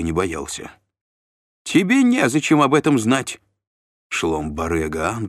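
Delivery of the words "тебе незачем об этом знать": high, loud dismissive shout; shrill retort. A narrator's reading. Shlom refuses to name the charge, shrill loud snap. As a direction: shut him down with a yell.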